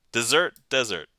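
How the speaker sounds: "desert" as dih-ZERT, then as DEZ-ert; comparing two pronunciations. Shown as a demonstration. Streamer testing two readings aloud, comparing pronunciations. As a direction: shift the stress between the two takes of "desert". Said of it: "they're both pronounced the same".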